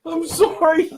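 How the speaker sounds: laughing through the words. Real, not acted. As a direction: apologise while laughing helplessly.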